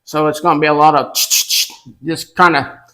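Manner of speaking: muffled through a mask; through a face mask. Real, not acted. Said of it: "I'm gonna try to talk through the mask".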